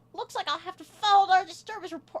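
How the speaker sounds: put-on very high, nasty, mean old-woman voice. Voicing an improvised old lady character, in a mean old lady voice. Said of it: "doing like an old mean old lady voice".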